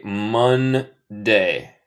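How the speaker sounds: Monday said slowly in two clear syllables; slow model pronunciation. Shown as a demonstration. Teacher models Monday for online students, slow model pronunciation. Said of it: "se dice".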